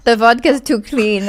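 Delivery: slow, loud attempt at Russian-accented English. Shown as a demonstration. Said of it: "I need more texture".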